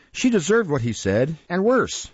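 high-pitched, emphatic scorn; spiteful retort. Acted. Mistress insulting the boy's mother, spiteful retort. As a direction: throw the insult back at him.

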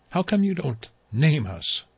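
high small voice; a small childlike inner voice; little voice. A narrator's reading. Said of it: "says the little one".

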